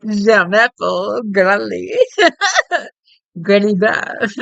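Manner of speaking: bonjour through giggles; can't get through it without laughing; giggly bonjour cracking up. Real, not acted. Giggling at own pronunciation.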